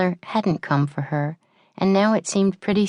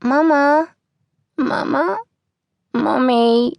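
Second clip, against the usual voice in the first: put-on high, loud cry of a small child; crying out for mama; 11 semitones higher, 4 dB louder, slower than usual. A narrator's reading. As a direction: call out for mama from a nightmare. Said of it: "crying out for her mother".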